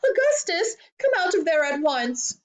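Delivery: high, frantic motherly command; high-pitched scolding yell. A narrator's reading. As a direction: screech for your son to obey. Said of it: "yelled Missus Globe".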